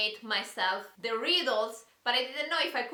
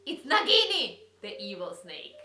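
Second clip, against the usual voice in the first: mysterious riddle reading; 2 semitones lower than usual. Acted. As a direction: read the riddles like a spooky secret. Reads rhyming riddles dramatically.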